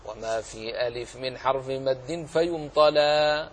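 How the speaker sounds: measured recitation of didactic verse. Shown as a demonstration. Teacher reciting al-Shatibi's verses to students, chanted verse recitation. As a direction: recite the poem line by line, drawing out the rhyme. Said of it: "سأتلو عليكم، أقرأ عليكم أبياتا".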